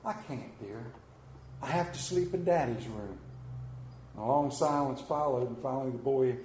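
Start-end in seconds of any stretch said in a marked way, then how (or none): 0.0-3.2 put-on softer, gentle reassurance to a child; a mild touch of motherly tenderness; tender mother. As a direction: soothe the little boy softly. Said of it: "said tenderly".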